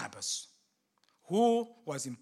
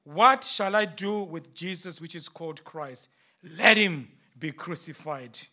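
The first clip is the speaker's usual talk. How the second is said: shouted question; 4 dB louder than usual. Acted. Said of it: "And I shouted".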